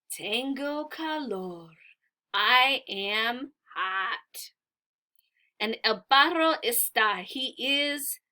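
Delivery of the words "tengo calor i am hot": bird speaking. Acted. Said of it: "He says".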